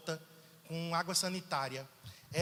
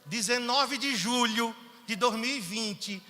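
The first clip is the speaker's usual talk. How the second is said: slow, loud, higher proclamation of the date; emphatic date; 4 semitones higher, 7 dB louder, slower than usual. Real, not acted. Preacher booming the date to his church slowly. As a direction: announce it like a big event. Announcing the return service date.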